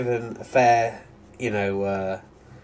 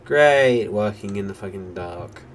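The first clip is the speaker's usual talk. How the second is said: sarcastic. Real, not acted. Annoyed at nightfall in game.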